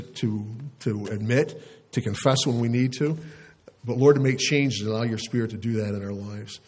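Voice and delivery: pastor praying aloud; steady spoken public prayer; closing prayer. Real, not acted. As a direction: address God earnestly on the congregation's behalf.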